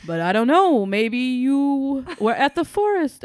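slow, loud mock German accent, comic grandpa; exaggerated German-ish accent, all over the place; Jackie Mason German accent. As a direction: ham up a bad German accent like a borscht-belt comic. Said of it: "Is that a good German accent?".

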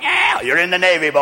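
hammed-up old sea dog; navy sailor. Sailor to a drunk waking aboard ship, hammed-up gloating voice. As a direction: crow it at the new recruit.

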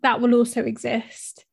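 breathless, short of air; out of breath while talking. Real, not acted. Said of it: "if I sound out of breath".

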